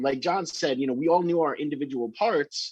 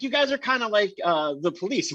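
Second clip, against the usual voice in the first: imitating Vic; 8 semitones higher than usual. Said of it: "he's like".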